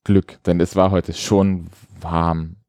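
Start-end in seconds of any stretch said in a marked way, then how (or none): 0.0-0.4 slow ironic so-called Glück; air quotes. Shown as a demonstration. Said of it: "ich mach jetzt Gänsefüßchen in der Luft".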